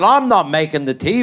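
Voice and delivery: lightly voiced wife refusing, close to own voice; a stubborn wife flatly refusing to make the tea. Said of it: "She said".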